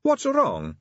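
put-on high, light young woman voice; a lightly voiced young vampire; Sally, vampire voice. A narrator's reading. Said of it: "said Sally".

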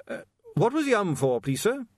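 high, earnest polite voice; polite young watchman. Acted. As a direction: ask it politely.

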